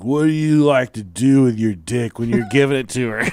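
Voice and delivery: imitated drunken prying; lightly slurred nosy drunk brother. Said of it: "he was drunk and fall".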